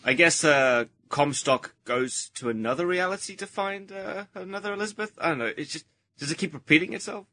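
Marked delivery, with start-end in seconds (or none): none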